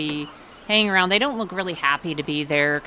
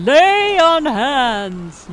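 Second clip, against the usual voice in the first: slow, high, drawn-out proclamation; hammed-up paladin calling out; grand announcement; 10 semitones higher, 9 dB louder, much slower than usual. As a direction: announce it like a holy rite. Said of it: "how Vale announces he's gonna do lay of hands".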